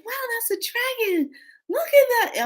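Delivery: very high, squealing wonder; imitated amazed little one. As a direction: mimic a little one's high-pitched awe. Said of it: "she's like".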